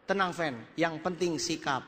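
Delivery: calm a worried partner with mild mock assurance; mock reassuring. Speaker reassures his partner after the failed meeting, mock calm.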